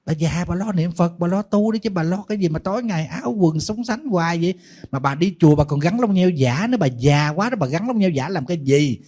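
playful scolding. Retold or imitated. Monk chiding an elderly devotee about false eyelashes, playful scolding. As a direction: nag her in mock exasperation.

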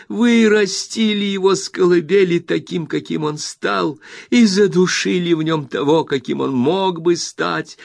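high and loud, slow furious accusation; Rosa, furious. A narrator's reading. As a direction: hammer each word into the mother. Continues the tirade. (Роза в ярости бросает обвинение матери)

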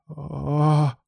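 an understated, drawn-out cry; drawn-out moan. A narrator's reading. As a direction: stretch the vowel into a lightly acted moan. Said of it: "протянул Алан".

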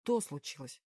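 a sunken, defeated voice; crestfallen voice. A narrator's reading. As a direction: answer like the wind has gone out of him. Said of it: "упавшим голосом ответил он".

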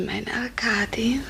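tender whisper. Acted. Zärtlich erleichtert über Geliebten.

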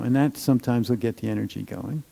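usual speaking voice

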